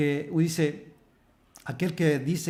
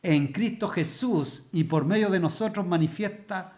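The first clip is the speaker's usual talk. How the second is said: preaching scripture reading; 2 semitones higher, slower than usual. Acted. Preacher reading Corinthians aloud to the church, slow proclaiming. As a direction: proclaim each phrase as a sermon climax. Reads scripture at full force.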